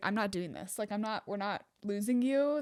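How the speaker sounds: mock panicked, frantic voice. Retelling a partner's words on a cliff hike: imitating someone panicking. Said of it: "he was panicking the whole time".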